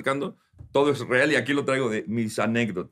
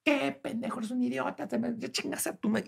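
mock yell; 12 semitones higher, 7 dB quieter than usual. He insults driver, retold.

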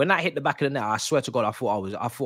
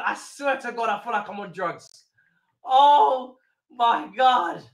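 higher, drawn-out euphoric exclamations; giddy high excitement; 7 semitones higher, slower than usual. Real, not acted. Fan to viewers after the goal, high giddy euphoria. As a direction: sound like you're floating on a high.

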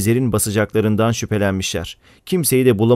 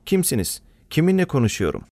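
high, anxious questioning; alarmed; 6 semitones higher than usual. Acted. Şükran demands the caller's name, alarmed and high. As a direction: pitch it up in sudden worry.

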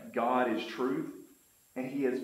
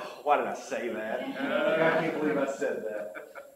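mock regret. Acts out regret after his advice.

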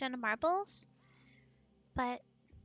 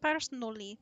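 lower, stereotypical Russian; mock Russian accent; bad Russian accent; 4 semitones lower than usual. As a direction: play a cartoonish Russian. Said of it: "the really bad stereotypical Russian".

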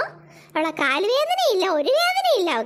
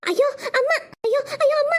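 sobbing ayyo; crying out; 4 semitones higher than usual. Acted. Child sobs as mother falls down. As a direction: wail in alarm.

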